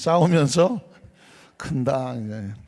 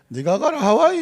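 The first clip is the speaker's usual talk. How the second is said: high, punchy Gyeongsang line; Gyeongsang dialect; 9 semitones higher, 5 dB louder than usual. Retold or imitated. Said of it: "경상도인가 보네". (높고 힘찬 경상도 사투리 흉내)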